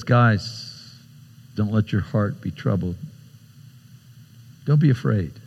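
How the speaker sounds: soft, low-key comforting; gentle reassurance. Acted. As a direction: settle worried friends gently. Jesus comforts the troubled disciples.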